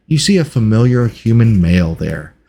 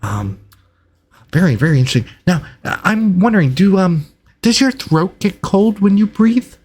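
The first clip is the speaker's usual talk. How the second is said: higher-pitched, stammering scholar; curious, hesitant researcher; 8 semitones higher than usual. Acted. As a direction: pose a halting, fascinated question in a raised voice. Game master voices Reginald.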